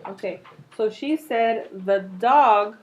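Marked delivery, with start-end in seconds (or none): 1.8-2.8 slow restatement. Shown as a demonstration. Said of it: "cannot hear her".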